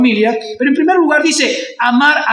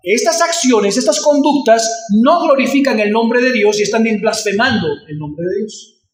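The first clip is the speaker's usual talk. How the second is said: usual speaking voice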